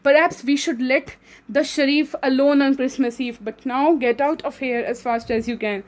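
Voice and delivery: reading the English passage aloud slowly; measured classroom read-aloud; slow story reading. Acted. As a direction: read each word carefully, like a textbook. Reads English story text aloud.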